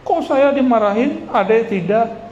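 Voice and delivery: high, whiny jealous protest; older brother whining about being scolded. Retold or imitated. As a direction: complain like a jealous big brother.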